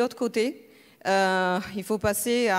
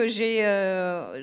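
ordinary talk

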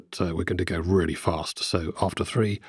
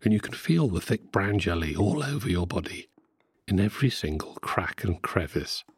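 guided meditation. Acted. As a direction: lull them along like a hypnotist.

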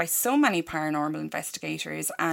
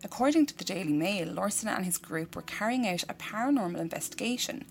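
measured, softer news-report reading; news story read-out; 6 dB quieter than usual. A narrator's reading. Host reading a murder-house news story to co-host, measured report. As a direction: read out a grim news story, quietly and evenly.

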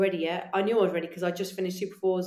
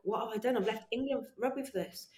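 doubtful inner voice; 7 dB quieter than usual. Retold or imitated. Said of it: "thinking in my head".

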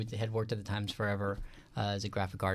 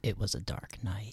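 spooky whisper; 4 dB quieter than usual. Pretend. Mock spooky story opener.

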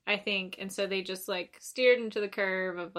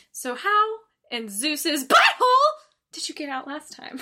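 animated movie quote; 6 semitones higher, 6 dB louder than usual. Retold or imitated. Friend mimics the actor getting animated, excited. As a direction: start calm, then burst into it. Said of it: "he gets, like, really animated".

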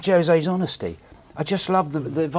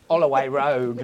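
lower, slurred impression of a rock star; 3 semitones lower, slower than usual. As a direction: let the posh voice slide into a slur. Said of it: "then he goes all sort of like".

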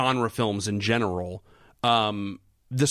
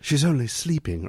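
bad acting. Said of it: "I'm a terrible actor".

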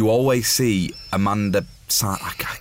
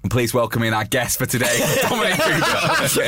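mock introduction; 2 semitones higher than usual. Mock guest introduction, cracking up.

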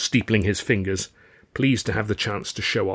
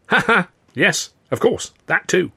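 laughing; 9 semitones higher, 4 dB louder than usual. A narrator's reading. Charlie laughing at the joke.

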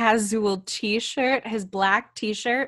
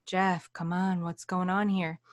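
imitating a doctor's quiet, serious check-in; softer, gravely concerned question; hushed bedside seriousness; 2 semitones lower, 6 dB quieter than usual. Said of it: "like, very seriously".

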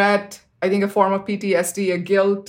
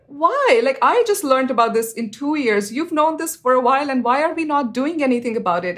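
exasperated why; 5 semitones higher than usual. Retold or imitated. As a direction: challenge the officials who know but act not. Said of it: "And I said".

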